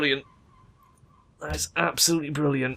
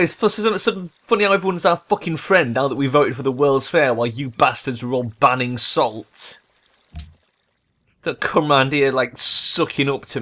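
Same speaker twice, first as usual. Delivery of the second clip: irritated rant; 2 semitones higher than usual. Real, not acted. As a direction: tell the rivals off. Ranting at AI rivals.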